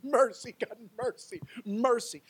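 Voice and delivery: high, pleading repeated appeal; cry for mercy. Acted. Preacher as psalmist begs God, crying for mercy. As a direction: beg for mercy, starting strong then easing. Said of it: "The Lord heard my cry for mercy".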